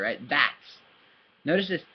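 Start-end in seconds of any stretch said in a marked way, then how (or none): 0.3-0.5 "Bats" pronounced clearly with a distinct ts; nice and clear. Shown as a demonstration. Teacher modelling for learner, "Bats" nice and clear. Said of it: "say it nice and clear".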